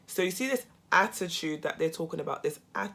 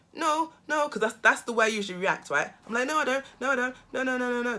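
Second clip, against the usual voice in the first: quick, higher denials, a touch defensive; defensive protest; 4 semitones higher, faster than usual. Retold or imitated. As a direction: brush it off nervously, no no no.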